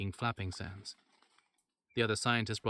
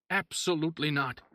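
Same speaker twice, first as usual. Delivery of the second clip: loud, higher outraged no; doctor refusing the mayor's order, loud and outraged; indignant refusal; 6 semitones higher, 4 dB louder than usual. Acted.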